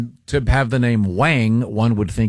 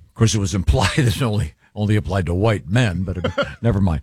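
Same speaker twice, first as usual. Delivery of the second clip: laughing; 4 semitones lower than usual. Real, not acted. Joking aside, laughing through it.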